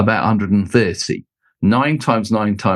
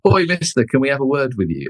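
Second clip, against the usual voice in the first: higher-pitched mock call for attention; hailing someone, quoted in a raised pitch; imitated sound-desk guys; 4 semitones higher than usual. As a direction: play a bloke collaring the speaker for a word. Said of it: "the guys on the sound desk".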